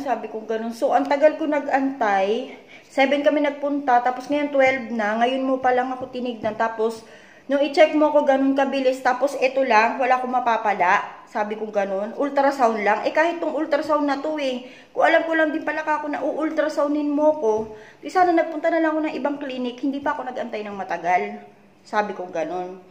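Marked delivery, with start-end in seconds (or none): 0.7-11.2 frustrated complaint. Retold or imitated. Retelling her complaint to doctor. 12.2-21.4 exasperated. Retold or imitated. Retelling her complaint to doctor.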